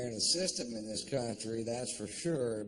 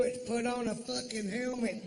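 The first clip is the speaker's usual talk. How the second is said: exasperated answer; 11 semitones higher than usual. Acted.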